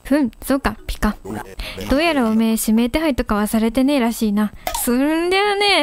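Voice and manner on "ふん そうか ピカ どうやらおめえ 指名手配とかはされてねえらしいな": lightly lowered tough-guy cat; スパーク. Acted. Reads Spark dialogue in gruff voice. (軽く低めのチンピラ口調)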